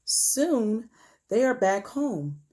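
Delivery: put-on measured, expressive story narration for children; read-aloud storytelling. A narrator's reading. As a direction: read it to young listeners, stretching key words. Reads picture book aloud.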